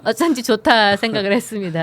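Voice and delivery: speaking through a light laugh. Real, not acted. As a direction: let the laugh spill into the words. 사투리 칭찬하며 웃으며 말함. (웃음 섞인 말투)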